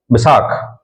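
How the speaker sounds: बैसाख with a plain s instead of sh, said slowly; Rajasthani form. Shown as a demonstration. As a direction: soften बैशाख to बैसाख, drawn out. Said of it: "वो इसको बैशाख नहीं बोलेंगे".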